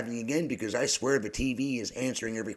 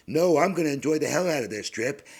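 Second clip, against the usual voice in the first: excited declaration; 7 semitones higher, 7 dB louder than usual. Retold or imitated. Defiant reply to TV character.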